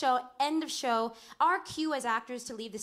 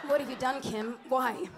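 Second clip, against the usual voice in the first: restrained, romantic stage lament. Retold or imitated. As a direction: plead tenderly, lightly acted. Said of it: "be romantic".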